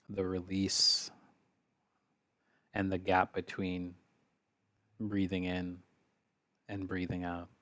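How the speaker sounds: calm, unhurried meditation guidance; guided meditation. Real, not acted. Leader asks group to focus on the breath, calm guided meditation. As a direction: guide gently, with long pauses between phrases.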